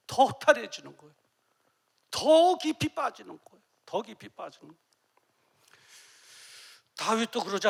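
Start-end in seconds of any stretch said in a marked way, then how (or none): 0.1-1.1 더 허탈해지는 said louder with weight; louder emphatic repeat. Shown as a demonstration. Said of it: "repeated louder". 2.1-3.6 더 깊이 빠지는 said higher and louder; emphatic loud. Shown as a demonstration. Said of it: "loud then soft repeat". 3.9-4.9 더 깊이 빠지는 dropped to a soft echo. Shown as a demonstration. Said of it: "soft echo".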